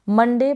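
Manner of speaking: मंडे with a short a in the first syllable; correct pronunciation. Shown as a demonstration. Teacher showing beginners how to read Monday, मंडे. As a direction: say मंडे, not मोंडे or मुंडे. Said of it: "मोंडे नहीं पढ़ेंगे".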